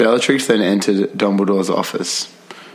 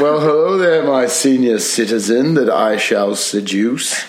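seductive villainess; 2 semitones higher than usual. Acted. Bellatrix seductive line again.

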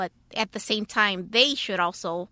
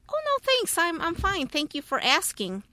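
high-pitched courteous brush-off, retold; polite refusal; 7 semitones higher than usual. Blind woman turns down a stranger's help, polite retold refusal. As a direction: decline kindly, starting high and easing down.

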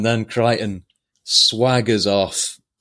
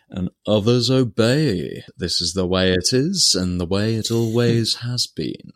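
mild Shere Khan impression. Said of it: "He says it very much like Shere Khan".

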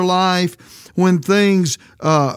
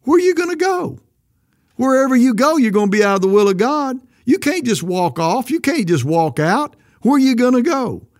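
retold challenge to friend; 5 semitones higher than usual. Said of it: "I said".

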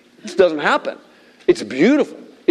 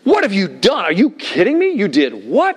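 raised pitch, incredulous outcry; exclaiming, mock screaming; 5 semitones higher than usual. Sailors confronting Jonah in disbelief, mock screaming. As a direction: exclaim it in disbelief, not full volume. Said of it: "it's that screaming".

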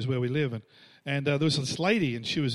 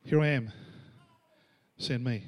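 humble volunteering; 5 semitones lower than usual. Acted. Preacher voices a willing servant answering God, humble volunteering. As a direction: offer yourself simply, letting it drop.

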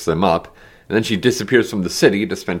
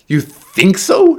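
high, incredulous scream; 11 semitones higher, 7 dB louder, much slower than usual. A narrator's reading. Woman rounds on Taryn over the bottle, screaming. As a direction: scream it slowly in disbelief. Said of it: "she screamed".

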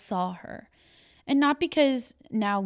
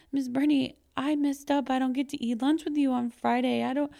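put-on boy's apology; 4 semitones higher than usual. Boy voiced in teacher's story.

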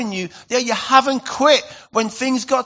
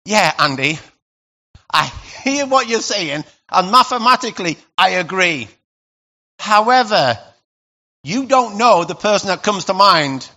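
objecting listener; 2 semitones lower than usual. Pretend. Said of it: "Now I'm over here".

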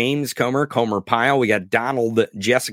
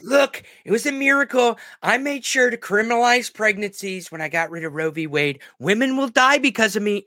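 mock politician; 7 semitones higher than usual. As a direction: boast like a president at a town hall. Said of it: "the Hitler town hall".

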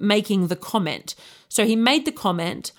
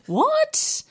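squeaked, much higher rising what; a baffled, disbelieving yelp; shocked what. Retold or imitated. Stunned reply to a dick pic.

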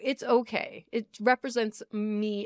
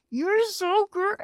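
gushing praise; 9 semitones higher, 4 dB louder, slower than usual. Retold or imitated. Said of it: "be like".

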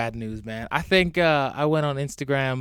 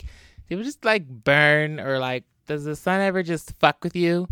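mock white person; 4 semitones higher than usual. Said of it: "if any white person asks".

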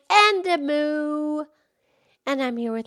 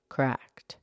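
1 Mildred the cow; 11 semitones lower, 9 dB quieter than usual. Acted. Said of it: "Mildred the Moo Moo Cow".

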